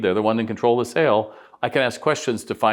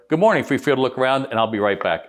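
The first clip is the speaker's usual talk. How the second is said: cheery store greeting; 2 semitones higher than usual. Shown as a demonstration. Salesperson greets a customer while walking by, bright cheery hello. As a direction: greet them brightly on the way past. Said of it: "I go".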